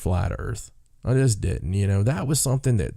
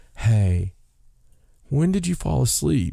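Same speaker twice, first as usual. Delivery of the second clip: play-acted kindly, sugary, sweet, gentle voice; 2 semitones higher than usual. Retelling asking a sleeping wife when she dozed off: imitating own nice voice. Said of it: "do it in your nice voice".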